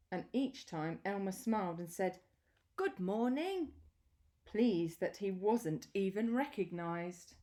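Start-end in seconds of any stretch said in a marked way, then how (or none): 2.8-3.7 much higher, friendly elephant voice; Elmer's reply. Acted. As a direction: answer sweetly in a high voice. Elmer answers while disguised.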